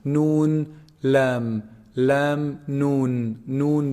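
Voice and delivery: held "Noon" with nasal hum, "lam" without; lam against noon. Shown as a demonstration. Teacher comparing articulation points, drawn-out "Noon" and "lam". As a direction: contrast a humming "noon" with a clean "lam". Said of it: "There's nasal sound".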